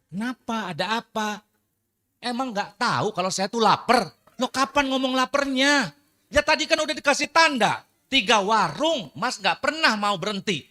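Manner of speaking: high, loud sulky complaint; sulking wife. Acted. Wife sulking at her husband over three restaurants, high and loud. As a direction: whine it like a hurt, hungry wife.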